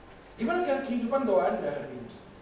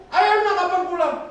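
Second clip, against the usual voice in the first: louder, higher pleading father with a laugh; pleading call; 10 semitones higher, 9 dB louder than usual. Retold or imitated. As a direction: beg the son to come home. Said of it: "jawaban Anda".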